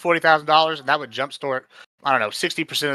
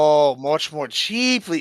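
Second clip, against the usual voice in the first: slow, drawn-out sarcastic repeat of "much more cheaply"; mocking echo; much slower than usual. Mocking echo of opponent's phrase.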